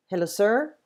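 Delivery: ordinary talk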